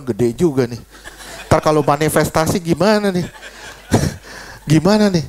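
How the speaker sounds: chuckling through his own remembered thought; laughing. Retold or imitated. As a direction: laugh it off while wondering aloud. Pastor recalls nervous joking thought. (tertawa kecil sambil bercanda)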